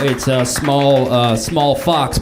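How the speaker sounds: slow, halting answer; hesitant guess. Acted. Lookalike answering a lefty's test question, slow and unsure. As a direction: feel your way through it, drawn out. Acted quiz answer, searching for it.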